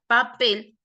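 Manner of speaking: papel with the weight on PEL; stress on last syllable. Shown as a demonstration. Teacher showing students an example word, papel stressed on pel. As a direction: say papel, leaning on the final syllable. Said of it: "llevan la mayor fuerza de voz".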